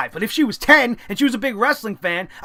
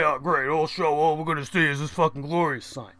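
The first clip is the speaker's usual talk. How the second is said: low, sneering mock of the guy behind; low mocking whine of a rude fan; mocking the jerk; 10 semitones lower, 7 dB quieter than usual. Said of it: "I hear fucking jerk off say".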